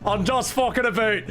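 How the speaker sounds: high-pitched giggling; laughing through the words. Real, not acted. Laughing apology.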